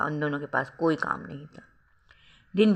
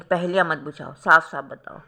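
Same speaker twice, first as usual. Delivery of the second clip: louder, urgent demand to speak plainly; 5 dB louder than usual. Acted. Husband presses his crying wife for the truth, loud and urgent. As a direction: push her hard for a straight answer.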